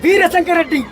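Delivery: dramatic hero rebuke, lightly voiced; Chiranjeevi dialogue. Guest performs the Indra rebuke scene for the show, dramatic. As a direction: scold like a righteous film hero. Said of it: "megastar Chiranjeevi".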